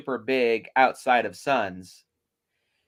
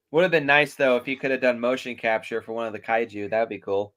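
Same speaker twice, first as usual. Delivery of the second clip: talking with a mouthful of food; mouth full; 3 semitones lower, faster than usual. Real, not acted. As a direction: speak around a bite you're chewing. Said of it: "Oh, your mouth's full".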